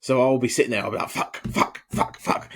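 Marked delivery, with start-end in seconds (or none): 1.1-2.5 hissed frustrated curses under the breath; whispered swearing. Retold or imitated. Fan at the late game, whispering curses at the screen. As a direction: whisper the swearing so she can't hear. Frustrated while watching basketball.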